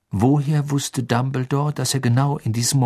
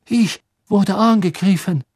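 Krum's voice; 9 semitones higher, 5 dB louder than usual. A narrator's reading. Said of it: "sagte Krumm".

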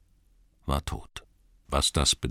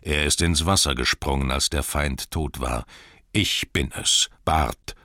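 calling out. Acted. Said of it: "rief er".

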